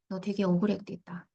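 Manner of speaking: empathetic. Shown as a demonstration. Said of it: "공감을 해준 거예요".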